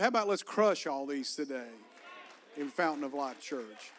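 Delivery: urging the congregation to answer. Shown as a demonstration. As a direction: say it again and make them hear it. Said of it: "I said".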